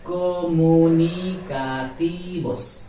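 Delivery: comunicativos said slowly, ending in bos; correct comunicativos. Shown as a demonstration. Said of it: "not vos".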